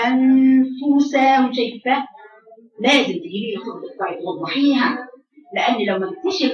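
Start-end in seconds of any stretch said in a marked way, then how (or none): 0.1-1.5 انفسهم drawn out slowly, the ف pushed clearly from lip and teeth; clear fa demo. Shown as a demonstration. Teacher showing girls how to voice the ف in انفسهم. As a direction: stretch انفسهم so the ف is plainly heard. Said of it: "تقول انفسهم".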